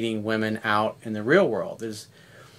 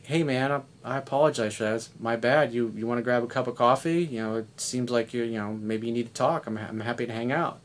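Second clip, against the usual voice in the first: softer, easy apology to an angry stranger; calm voice; 5 dB quieter than usual. Retold or imitated. Friend apologizing to an angry driver, calm and softer. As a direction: talk him down gently, no edge. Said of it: "in a very calm voice".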